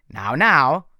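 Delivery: loud menacing warning. A narrator's reading. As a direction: warn him sharply. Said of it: "Doctor Thorne warned".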